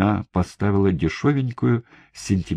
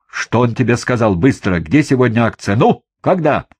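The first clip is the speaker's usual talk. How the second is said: harsh interrogation; 5 semitones higher, 5 dB louder than usual. A narrator's reading. Interrogator pressing the prisoner.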